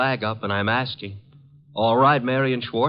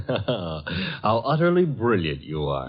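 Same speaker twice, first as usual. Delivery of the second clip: laughing tease; slower than usual. Acted. Archie teasing Wolf after explanation.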